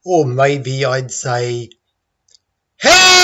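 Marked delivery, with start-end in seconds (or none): 2.8-3.2 HELP yelled very high on a big E; emphasized E. Shown as a demonstration. Teacher showing real stress, HELP shouted high with strong E. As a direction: scream HELP, blasting the vowel. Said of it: "I would emphasize the E".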